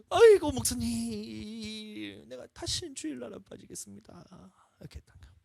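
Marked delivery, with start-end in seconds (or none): 0.1-4.2 moved pleading deacon. Retold or imitated.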